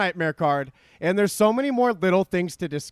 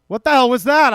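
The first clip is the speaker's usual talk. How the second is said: surprised; 4 semitones higher, 6 dB louder than usual. Real, not acted. Startled by odd donation.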